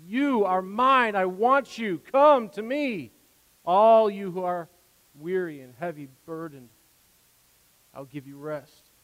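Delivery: beckoning the weary gently; sweet calling voice. Retold or imitated. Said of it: "He cries out to us in this sweet voice".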